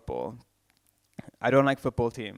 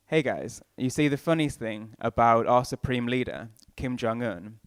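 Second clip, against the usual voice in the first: North Korean comedian. Pretend. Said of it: "Here's my impression of a comedian doing political comedy in North Korea".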